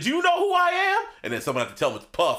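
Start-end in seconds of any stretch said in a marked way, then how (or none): 0.0-1.0 higher, louder indignant celebrity demand; celebrity rapper impression. Host imitating a rapper demanding recognition, indignant. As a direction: throw your status at him. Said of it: "he's like".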